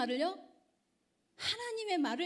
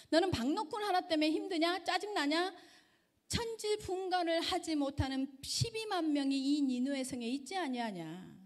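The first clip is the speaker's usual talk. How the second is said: God rebuking; 4 semitones higher than usual. Retold or imitated. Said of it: "하나님이 이렇게 말합니다".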